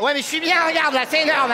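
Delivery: happy, oblivious; lightly voiced drunk Michel. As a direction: drunk Michel defending himself.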